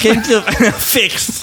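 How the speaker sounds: Samuel L. Jackson. Acted. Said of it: "Samuel L. Jackson filter".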